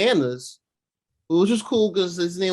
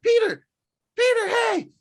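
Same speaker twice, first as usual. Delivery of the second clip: much higher, louder call across an alley; 4 dB louder than usual. Retold or imitated. Friends shouting after Peter down the alley, high call. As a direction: hail him from a distance.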